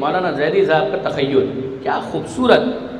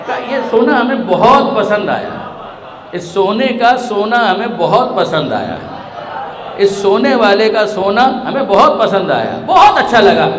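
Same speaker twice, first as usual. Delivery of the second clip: building delight; 2 semitones higher than usual. Acted. Preacher builds repeated praise, laughing.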